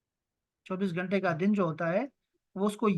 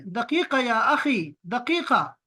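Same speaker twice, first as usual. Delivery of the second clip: slow, drawn-out "دقیقہ یا اخی", pitched a bit higher; asking to wait a minute; 3 semitones higher than usual. Shown as a demonstration. Teacher shows students how to say "one minute, brother", slow and drawn out. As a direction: hold someone off with a stretched "دقیقہ". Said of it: "تو آپ کسی کو یہ بھی کہہ سکتے ہیں".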